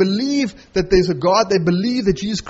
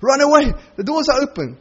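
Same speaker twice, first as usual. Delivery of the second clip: pitched up, pressing urge to flee; urgent tempting voice; 7 semitones higher, 4 dB louder than usual. Retold or imitated. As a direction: voice the circumstances urging escape, louder. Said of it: "the circumstances said".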